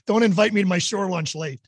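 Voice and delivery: laughing through a joking jab; teasing line, laughing. Real, not acted. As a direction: chuckle the words out as you tease. Joking jab during fishing banter.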